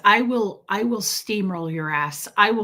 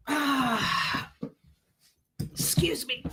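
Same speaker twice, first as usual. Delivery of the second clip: higher, softer put-on lady voice; fake-polite excuse me; 4 semitones higher, 5 dB quieter, much slower than usual. Mocking a purse-hogging woman for viewers, higher and softer fake-polite voice. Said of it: "I had to really act that out".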